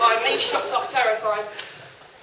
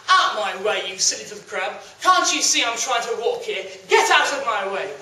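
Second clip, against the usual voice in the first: arrogant; 3 semitones lower than usual. Acted. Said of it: "being so arrogant".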